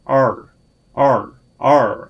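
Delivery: R drawn out, tongue curled back; R sound demo. Shown as a demonstration. Teacher showing Korean learners the English R, drawn out. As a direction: hold the curled R slowly. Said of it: "혀를 안으로 이렇게 굴려서".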